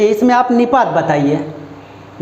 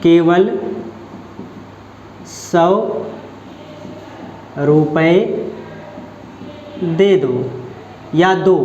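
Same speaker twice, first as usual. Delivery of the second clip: lower, each word spaced with long pauses; slow drawn-out demo; 5 semitones lower, 4 dB quieter, slower than usual. Shown as a demonstration. Teacher spelling the sentence out slowly for students. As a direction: drag it out word by word, weight on केवल. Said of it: "किस शब्द में निपात है".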